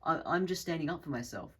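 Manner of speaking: high-pitched mock innocence; innocent one. Culprit casting themselves as the innocent one, mock innocent. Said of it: "innocent one who's like".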